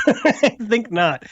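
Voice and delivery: drawn out slowly, high and laughing; mock haughty dismissal. Real, not acted. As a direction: savour the put-down like a snob.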